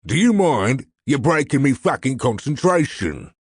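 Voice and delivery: irate crook, high and loud; angry snap. A narrator's reading. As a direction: tell off the partner who broke your concentration. Angry interruption, vein throbbing in anger.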